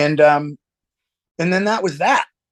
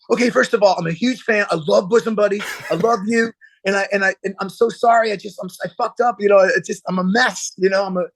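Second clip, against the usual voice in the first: gushing apology; 4 semitones higher, faster than usual. Retold or imitated. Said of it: "maybe I didn't say it like that".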